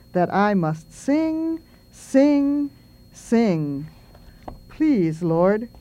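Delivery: slow, measured prayer-poem reading. Acted. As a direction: recite a small bird's plea, lingering on phrases. Reads a bird's prayer poem.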